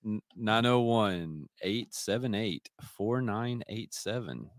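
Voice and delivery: slow announcer read; voiceover. Pretend. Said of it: "That was a voiceover".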